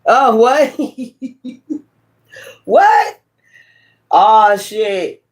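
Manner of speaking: startled high yelp of shock; jolted out of the sermon, yelping in surprise; shocked cry, half laughing; real shock. Real, not acted. Shocked by a phone sound.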